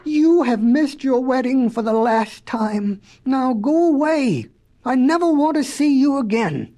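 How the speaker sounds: tearful-angry rebuke, moderately played; upset scolding. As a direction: send them away, wounded and indignant. Jilted Betsy dismisses the professor.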